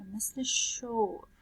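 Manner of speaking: شور said slowly with a soft sh at the start; sh sound demo. Shown as a demonstration. Teacher showing pupils how the sh sound is said.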